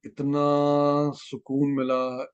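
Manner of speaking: very slow, moved to tears; real emotion, drawn out slowly; overcome with emotion. Real, not acted. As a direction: let the relief and tears slow every word. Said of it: "इतना रोना आया".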